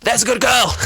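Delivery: high, loud mock condescension; Baines. Villain belittling the crying maid, loud high-pitched patronizing. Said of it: "that whole thing that he says to her".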